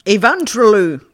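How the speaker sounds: low, slow menacing growl; menacing killer. Acted. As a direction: snarl it like a killer. Psychopath killer voice.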